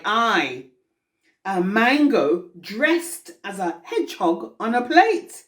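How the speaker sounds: deliberate verse reading with pauses between phrases; poem recitation. Acted. Poet recalling a mango in a London restaurant, measured recitation. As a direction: recite it as verse, lingering on the images.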